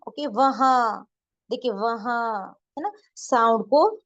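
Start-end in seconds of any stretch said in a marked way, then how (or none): 0.3-2.5 वहाँ slowly, last vowel pulled long through the nose; drawn-out nasal vowel. Shown as a demonstration. Urdu teacher showing learners the pulled sound, drawn-out nasal. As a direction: stretch the end of वहाँ into the nose. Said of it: "खींचा जा रहा है".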